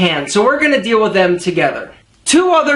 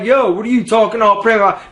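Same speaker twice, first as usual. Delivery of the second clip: mock friends. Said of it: "Don't worry if they're like".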